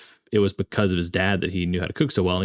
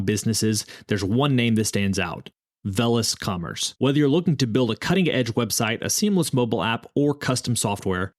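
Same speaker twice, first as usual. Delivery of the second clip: polished, scripted podcast ad delivery; sponsor ad read. Acted. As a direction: read the sponsor spot crisply, selling the service.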